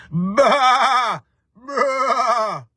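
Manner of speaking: high, loud bleating baa; sheep bleat. Shown as a demonstration. Host bleating like a sheep for his viewers, loud high baa. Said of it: "Do I sound like a sheep?".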